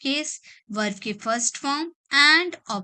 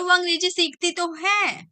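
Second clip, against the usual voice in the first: higher, pressing on तो है; mock angry insistence; 5 semitones higher than usual. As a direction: insist a little heated, like you're contradicting someone. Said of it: "तो आप गुस्से में आके बोलो". (हल्के गुस्से में, "तो" पर ज़ोर देकर)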